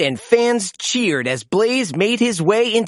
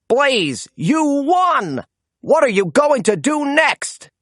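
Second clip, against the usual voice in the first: high, bright, raised announcer voice; excited announcer; 8 semitones higher than usual. A narrator's reading. Announcer greeting the winning truck, high and excited. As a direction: hype up the winner. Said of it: "asked the announcer".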